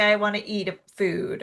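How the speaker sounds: normal talking voice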